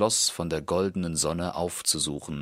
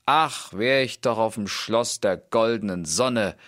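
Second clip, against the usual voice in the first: sighing call; 4 semitones higher, 4 dB louder than usual. Acted. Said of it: "seufzte er aus dem Herzensgrund und rief".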